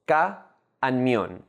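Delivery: "ca" and "mión" said as separate syllables. Shown as a demonstration. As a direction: pause after "ca", then give "mión". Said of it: "made up of two syllables".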